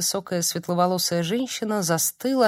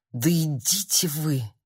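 slow, rasped brush-off; hoarse rasp; 3 semitones lower, slower than usual. Acted. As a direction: croak it out. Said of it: "прохрипела Ольга".

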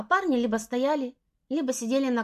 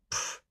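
soft snort; 7 dB quieter than usual. Acted. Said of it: "фыркнула она".

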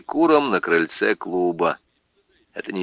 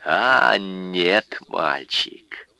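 put-on lecturing drunk; slower than usual. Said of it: "изрёк поучающий Пётр Житов".

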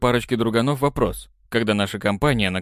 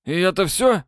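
high, startled question; can't believe that's all; a young man's surprised disbelief; 8 semitones higher than usual. Acted. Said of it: "Сильно удивился этот Кин".

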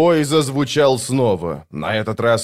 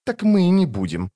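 snapping; 8 semitones higher than usual. A narrator's reading. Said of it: "огрызнулась сестра".

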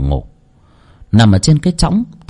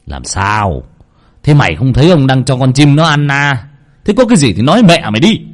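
annoyed grumble rising to a fast, louder snap; irritated; 3 semitones higher, 3 dB louder than usual. Acted. Old master annoyed at the maid, snapping faster and louder. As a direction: brush the maid off, getting crosser. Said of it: "Ông nhăn mặt bực bội".

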